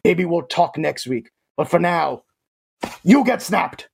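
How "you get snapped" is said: villain's verdict. Acted. Thanos cuts a player.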